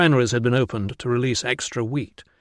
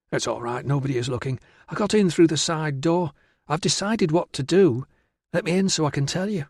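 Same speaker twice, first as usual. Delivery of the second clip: higher, hushed start then eager rush; a hint of an excitable young woman confiding; lightly voiced eager girl; 5 semitones higher than usual. Virana confides her plan to Tilla, lightly voiced eager girl.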